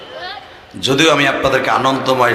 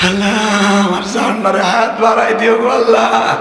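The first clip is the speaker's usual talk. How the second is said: mock pleading prayer; 8 semitones higher than usual. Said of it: "এই দোয়া করবা".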